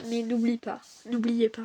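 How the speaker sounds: breathless, gasping for air; out of breath. Real, not acted. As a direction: speak short of breath. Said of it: "je suis essoufflée".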